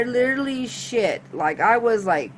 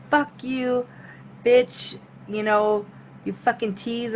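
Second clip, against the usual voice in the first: mildly angry retold insult, drawn-apart words; pissed off; 3 semitones higher, slower than usual. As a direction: imitate a spurned woman's anger, a bit higher. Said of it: "pissed, and said".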